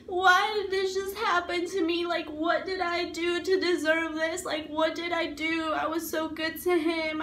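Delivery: impassioned retold outcry, not a full scream; retold anguished screaming. Asking why he hurt her, retold anguished cry. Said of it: "I'm screaming and I'm like".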